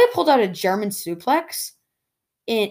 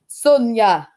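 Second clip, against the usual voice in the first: attempted Nigerian accent; 3 semitones higher, 6 dB louder than usual. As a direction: call out in a rough imitation Nigerian accent. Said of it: "I can't do a Nigerian accent".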